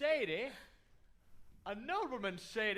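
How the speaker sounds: laughing outrage at shady; indignant surprise. Acted. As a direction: bristle at the insult. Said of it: "shady family he's married into".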